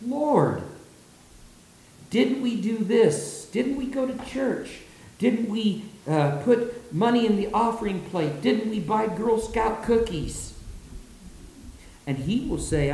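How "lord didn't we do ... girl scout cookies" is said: much higher whiny pleading voice; mock the self-justifying churchgoer begging. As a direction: people before God, listing their good deeds, whining. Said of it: "will come in and say".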